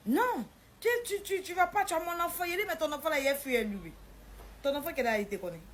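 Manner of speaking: high, loud stammered protest; agitated refusal. Retold or imitated. Arguing over the child, agitated and loud. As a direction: push the voice up, tripping on the first words.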